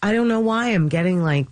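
real emotion rising, voice lifting high; getting emotional. Real, not acted. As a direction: laugh a little as the feelings well up. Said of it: "emotional about it".

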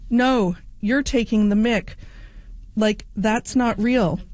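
put-on slow Australian accent, doubtful; a hint of Australian drawl, disbelieving. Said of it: "in my best Australian accent here".

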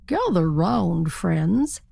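slow, grand call to the flock; a lightly voiced regal turkey; turkey king. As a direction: summon them like a proud king. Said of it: "he said".

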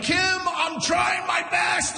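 high, slow, strained mock yell; retold yell. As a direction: play the desperate husband yelling. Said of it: "I see a man and a woman yelling".

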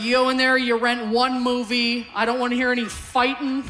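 mock screaming dad. Dad to kids in the back of the van, mock yelling. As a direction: lay down the law as an exasperated father, half-shouted. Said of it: "He'd just be screaming into the rearview mirror".

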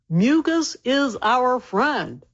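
slow, spaced-out slogan; repeat-after-me slogan. Shown as a demonstration. Doctor giving listeners a line to repeat, slow slogan. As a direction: say it slowly for others to repeat. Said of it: "repeat after me".

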